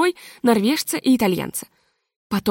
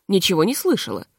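ordinary delivery

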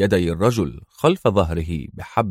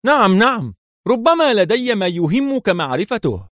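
much higher, desperate eagerness; eager; 11 semitones higher than usual. A narrator's reading. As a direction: grab at the way out. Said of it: "بلهفة من وجد طريقا للخلاص".

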